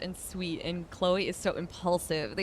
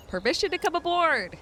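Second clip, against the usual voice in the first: louder, higher, bellowed out; loud pirate call; 9 semitones higher, 5 dB louder than usual. Shown as a demonstration. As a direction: shout it like a pirate. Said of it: "and I'm the dork? Oh, come on".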